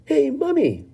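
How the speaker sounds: high, spoilt-brat call; a demanding child yelling for her mother; Veruca shouting. Acted. Veruca calling her mother across the room, high and bratty. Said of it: "shouted Veruca Salt suddenly".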